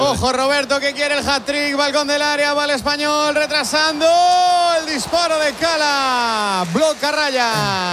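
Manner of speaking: excited play-by-play. Acted. Live goal-chance commentary.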